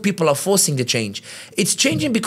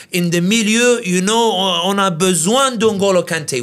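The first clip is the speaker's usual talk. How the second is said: French fan voice; 4 semitones higher, 3 dB louder, slower than usual. Retold or imitated. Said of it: "They're saying".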